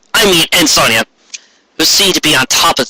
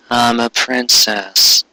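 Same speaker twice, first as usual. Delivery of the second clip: awed whisper-like line; 3 semitones lower, much slower than usual. Acted. Sonia amazed at transformation.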